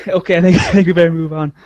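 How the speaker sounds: laughing as you call time on it. Real, not acted. Laughing while cutting the rambling short.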